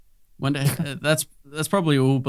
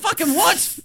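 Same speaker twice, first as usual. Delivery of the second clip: high, incredulous mock shriek; baffled squeal; slower than usual. Hearing car trivia, high stunned squeak. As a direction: jump way up in disbelief. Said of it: "You're like".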